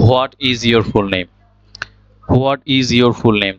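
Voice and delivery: "What" said "ho-at", slowly; slow example question with an h sounded in "What"; common mispronunciation. Shown as a demonstration. Teacher reads an example the common way, "What" as "hwaat". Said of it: "তাহলে এখানে হোয়াট আমরা বলতেছি".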